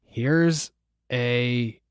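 slow, soft, halting card reading; lightly voiced mom reading word by word; measured, quiet delivery with pauses; Nancy. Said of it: "read it in her voice".

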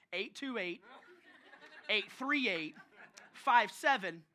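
phone number in separate, punched groups; each group of digits stressed, with a pause after it; pointed emphasis. Retold or imitated. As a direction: imitate an irked wife punching out EIGHT THREE EIGHT and FIVE SEVEN. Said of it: "she said it with some emphasis".

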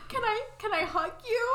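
mock-tender request broken by laughter; laughing through it. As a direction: ask for a hug while giggling. Chessie voiced, hugging Annie.

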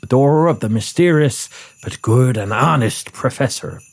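put-on a light Scottish accent. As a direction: read the narration in a Scottish burr. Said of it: "I'm drifting into Rudolph again".

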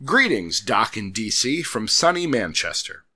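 lightly hammed British letter-reading accent; put-on British accent. Host reading Simon's email from sunny Manchester, put-on British accent. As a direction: read it out in a mock British accent. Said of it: "please forgive me for these accents".

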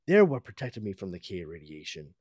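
low heroic hero voice; heroic Superman voice. Acted. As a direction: speak like a cartoon Superman. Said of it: "Superman would say that".

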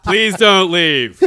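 slow pleading through a laugh; drawn-out laughing please. Pretend. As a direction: beg them to stay, laughing.

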